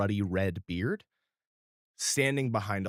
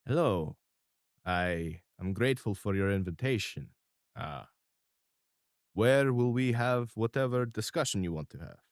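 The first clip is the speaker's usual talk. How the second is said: Mister R voice. Acted. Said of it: "looks around at you guys and goes".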